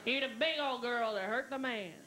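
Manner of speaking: lightly voiced nurse repeating herself; slow repeated nurse line. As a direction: say it again slowly for a confused listener.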